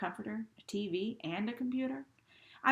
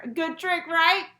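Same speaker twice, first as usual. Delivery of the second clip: rising higher and louder in a mild nervous laugh; laughing, pitching higher; 9 semitones higher, 11 dB louder than usual. Acted. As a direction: giggle it out, climbing higher. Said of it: "his voice pitching higher and higher".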